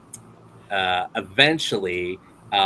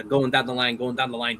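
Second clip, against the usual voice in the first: ordinary talk, nothing marked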